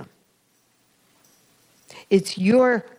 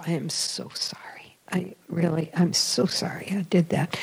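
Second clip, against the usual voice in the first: softly murmured retold apology; contrite prayer; 6 dB quieter than usual. Penitent retelling her apology to the Lord, soft and contrite. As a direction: plead softly for pardon, voice dropped.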